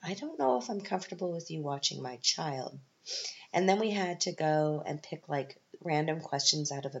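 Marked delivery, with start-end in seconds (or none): 0.0-2.8 wary inner voice. Retold or imitated. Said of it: "And I was like".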